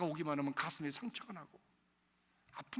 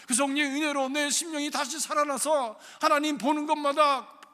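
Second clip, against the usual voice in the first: loud, higher, impassioned prayer; fervent loud prayer; 6 semitones higher, 11 dB louder than usual. Acted. Pastor praying loudly for the Spirit before the congregation. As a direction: cry it out to heaven.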